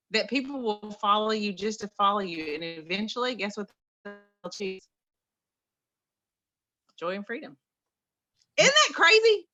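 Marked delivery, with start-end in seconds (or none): 3.3-7.6 hushed reveal. Acted. Dramatic reveal of the answer. 8.6-9.5 much higher and louder, thrilled; excited. Real, not acted. Speaker worked up by her own message, exclaiming excitedly.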